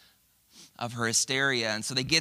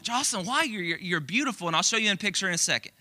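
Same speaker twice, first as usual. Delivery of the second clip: reassuring parents; 6 semitones higher, faster than usual. Retold or imitated. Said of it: "And they were like".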